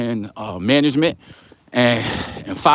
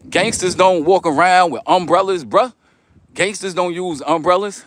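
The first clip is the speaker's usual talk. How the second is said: mock tough talk; 5 semitones higher than usual. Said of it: "Nah, I'm joking".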